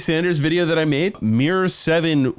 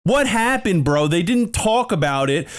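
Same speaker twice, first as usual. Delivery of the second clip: exasperated rant; 6 semitones higher than usual. Real, not acted. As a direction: vent the outrage, voice pitched up. Ranting at the Dems.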